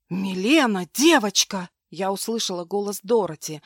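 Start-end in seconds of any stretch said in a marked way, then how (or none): 0.1-1.7 louder frightened call; horrified cry. Acted. Maid finds the girl hurt, louder horrified call. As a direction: call out in horror. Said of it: "дрогнувшей в ужасе".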